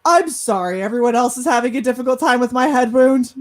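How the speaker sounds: mock-apologise like a wronged kid; retold huffy sarcasm; sarcastic apology. Indignant retort to mom.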